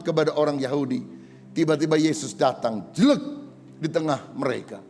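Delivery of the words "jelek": sudden appearance noise. Acted. Imitates Jesus appearing suddenly.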